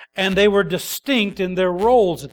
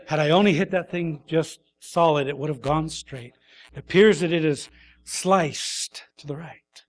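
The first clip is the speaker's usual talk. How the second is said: mock detached golfer; 2 semitones lower than usual. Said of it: "your response isn't".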